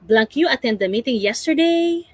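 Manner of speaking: yesterday rising at the end of the yes-no question; teacher modelling a yes-no question; rising intonation. Shown as a demonstration. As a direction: lift the tune on yesterday. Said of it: "Rising intonation".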